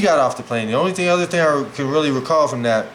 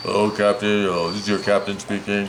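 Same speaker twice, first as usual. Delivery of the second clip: lower, mock pilot intercom voice; lightly voiced airline captain, lower; 6 semitones lower than usual. Boy mimics pilot announcement to audience, low captain voice. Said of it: "they probably still sound the same".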